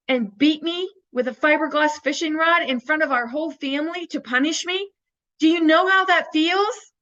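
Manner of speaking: replaying her angry protest to the teacher; upset, frustrated outburst. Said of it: "I would get so upset and frustrated".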